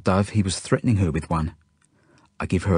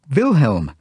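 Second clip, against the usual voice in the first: raised, high-pitched furious call; angry shout; 6 semitones higher, 6 dB louder than usual. A narrator's reading. Genya shouts as he comes into the house, furious shout. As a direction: shout the name in anger. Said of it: "shouts Genya as I come into the house".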